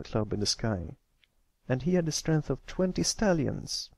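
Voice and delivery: a hint of an eager young guide; a colt showing the fillies the sky; lightly voiced colt storyteller. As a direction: proudly point out stars. Patch explains constellations.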